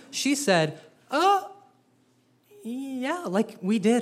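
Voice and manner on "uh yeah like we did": flustered Sarah. Acted. Sarah caught off guard.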